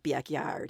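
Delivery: "backyard" with a nasalised Ohio a, like "byack-yard"; Ohio accent vowel. Shown as a demonstration. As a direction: say "backyard" with that Midwestern yanked vowel. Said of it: "the sort of yank thing".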